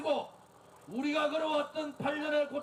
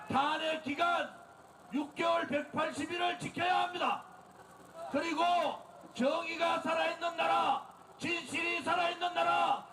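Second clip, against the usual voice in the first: shouted protest speech to a crowd; rally the crowd at full volume; roaring rallying speech. Real, not acted. Leads political rally.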